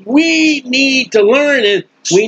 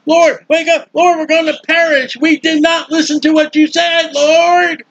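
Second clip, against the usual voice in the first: higher, urgent plea to a sleeping master; panicked disciples; 5 semitones higher than usual. Acted. Disciples pleading with sleeping Jesus, higher and panicked. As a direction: beg him to wake before the boat sinks.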